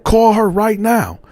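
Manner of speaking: imitating a furious girlfriend; angry girlfriend. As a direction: confront him over the photos. Girlfriend insists.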